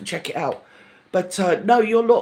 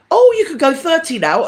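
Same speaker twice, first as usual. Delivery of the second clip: high, louder sing-song sign; bright mock announcement, much higher and louder; mock road sign voice; 9 semitones higher, 6 dB louder than usual. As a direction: play the sign granting permission.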